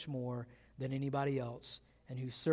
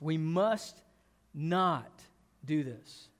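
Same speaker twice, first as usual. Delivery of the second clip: MUST and NOT set apart by pauses; weight "must", pause, then "not" on its own; moral emphasis; much slower than usual. Retold or imitated. David preaches to his brothers, morally emphatic. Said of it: "that's the moral emphasis".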